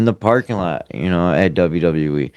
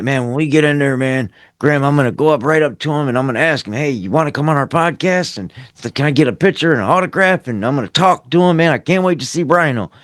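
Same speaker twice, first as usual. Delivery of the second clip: excited fanboy; 6 semitones higher, faster than usual. Retold or imitated. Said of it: "so I'm like".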